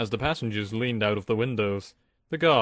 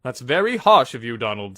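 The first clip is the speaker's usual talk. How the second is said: snapped furiously; 7 dB louder than usual. Acted. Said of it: "snapped Bear furiously".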